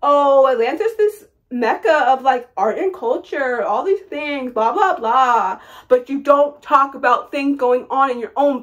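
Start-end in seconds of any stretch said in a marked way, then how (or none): 0.0-5.6 mocking celebrities. Mocking Atlanta celebrities who hype the city. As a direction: sneer lightly at their empty praise. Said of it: "who always wanna talk about how".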